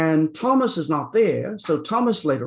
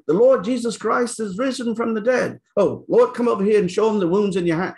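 mock excited proclaiming; 7 semitones higher than usual. Mock preacher proclaiming to crowd.

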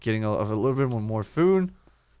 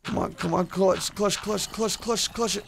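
urging the game on; 9 semitones higher than usual. Real, not acted. Tense moment in the game.

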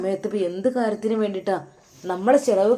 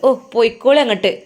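scornful jibe; 3 semitones higher, 6 dB louder than usual. Acted. Wife mocks husband in quarrel.

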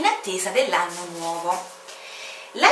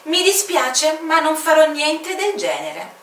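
higher, polite but firm no; courteous unshakable pilot; decisive refusal; 8 semitones higher, 5 dB louder than usual. Acted. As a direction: refuse calmly, no room to argue. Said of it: "Il suo tono era così deciso".

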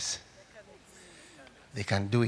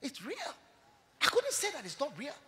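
much softer, quick sorrowful answer; hushed reply; 7 semitones higher, 10 dB quieter, faster than usual. Retold or imitated. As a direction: quietly admit the hard truth. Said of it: "And he said".

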